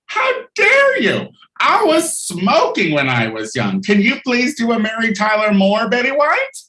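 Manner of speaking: a hammed-up Betty White, wounded and indignant; mock Betty White. Betty White protesting about her old wax figure, a shrieking mock outrage. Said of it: "I think of Betty White".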